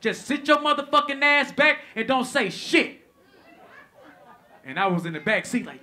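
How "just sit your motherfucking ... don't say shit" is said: loud, fierce threat through the teeth; sister's warning. Retold or imitated. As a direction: lay down the law, loud and furious. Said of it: "She was like".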